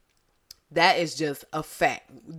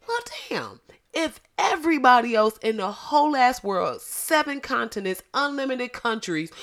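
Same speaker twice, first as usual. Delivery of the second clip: exasperated; 4 semitones higher, 4 dB louder than usual. Retold or imitated. Imagined exasperated inner thought.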